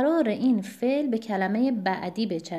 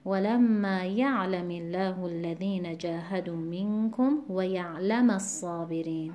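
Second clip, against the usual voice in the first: first یعلم as YA'-lami, second یعلم as ya'-LA-ma; measured recitation, shifting the stress between the two یعلم; contrasting stress. Shown as a demonstration.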